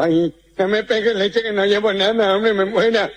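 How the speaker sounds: muddled consonants, llevo as jemo; nasal-speech character. Acted. The gangoso protesting to muggers, consonants blurred. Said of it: "El gangoso en el suelo".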